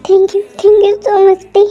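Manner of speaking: slow, grateful thanks; heartfelt relief. Acted. Husband thanking wife for staying, heartfelt relief.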